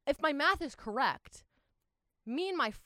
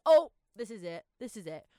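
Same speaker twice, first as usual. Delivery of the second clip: terrified; 8 dB louder than usual. Retold or imitated. Man screaming outside the station.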